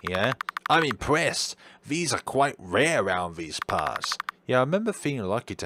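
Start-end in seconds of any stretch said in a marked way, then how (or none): 0.7-4.2 a touch of the doctor's voice; the doctor remarking on a painting, lightly voiced; doctor character voice. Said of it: "I'm gonna drop this voice".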